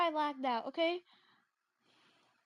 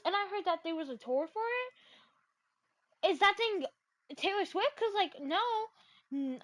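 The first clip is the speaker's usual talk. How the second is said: ordinary delivery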